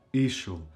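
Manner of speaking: ishul stressed on opening I; first-syllable stress. Shown as a demonstration. Teacher repeating the exception, ishul stressed on I. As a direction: lean on I in ishul, let shul fall away. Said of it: "the first syllable is stressed".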